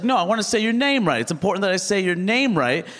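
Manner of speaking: imitating an upset man. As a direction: insist indignantly, high and quick at first. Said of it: "he got upset".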